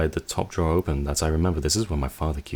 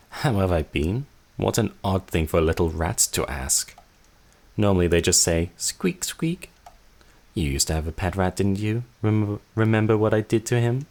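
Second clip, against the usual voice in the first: higher, mocking sister's voice; taunting sister; 4 semitones higher than usual. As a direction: toy with the little rat.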